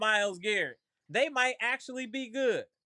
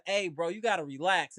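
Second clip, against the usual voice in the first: Nori voice; 5 semitones lower than usual. Retold or imitated. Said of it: "in my Nori voice".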